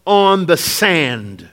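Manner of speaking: measured, solemn Bible reading; scripture reading. Acted. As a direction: read the verse slowly and gravely. Reads scripture aloud.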